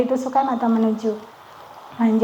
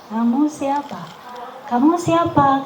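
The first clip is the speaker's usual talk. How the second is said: gentle low tone; 3 dB quieter than usual. Shown as a demonstration. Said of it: "pakai nada lembut".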